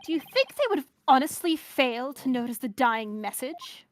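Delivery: measured mid-Atlantic prosecutor voice; halfway to British, formally delivered; light transatlantic accent for a formal questioner. Acted. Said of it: "a mid-Atlantic, transatlantic kind of thing".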